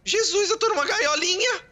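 high, whiny cries for help; mock distress. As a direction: plead dramatically from the cage. Trapped, pleading for help. (lamento agudo e exagerado pedindo ajuda)

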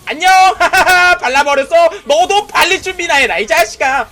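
loud high laughing gloat; gloating taunt. Real, not acted. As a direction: crow over the kill. Gloating after kill. (신나게 조롱하며 외침)

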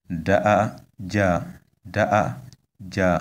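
da-a-ja with high-toned vowels, syllables set apart; da-a-ja as a careful tone demonstration. Shown as a demonstration. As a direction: model da-a-ja carefully, long first vowel then ja. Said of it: "we have high tones".

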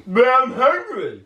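very high, loud, slow squeal; whining rat. Acted. Rat protests being kept in the closet, whining. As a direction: squeal the complaint, drawn out. Rat answers Junior in scene.

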